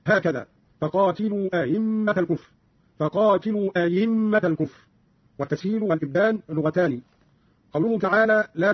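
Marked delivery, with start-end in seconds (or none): 0.8-2.5 أئمة with its second hamza eased toward a y, no full catch; softened second hamza. Shown as a demonstration. Teacher demonstrates Qalun's reading, second hamza of أئمة softened. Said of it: "بتسهيل الهمزة الثانية". 3.0-4.8 أئمة said "a-yimma" with a clear y; hamza as pure ya. Shown as a demonstration. Teacher shows the alternative reading, أئمة as "ayimma". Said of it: "أو إبدالها ياء خالصة".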